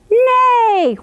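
loud high neighing horse. Acted. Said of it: "Then the goose said".

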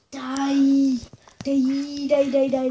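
loud chanted yell; shouting. Real, not acted. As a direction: keep yelling at the mob. Attacking a mob in the game.

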